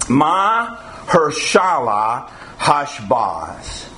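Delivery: "Mahershala Hashbaz" said very slowly, syllable by syllable; Hebrew name spelled out. Shown as a demonstration. Preacher slowly sounding out a Hebrew name to the church. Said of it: "look at the name that he gave here".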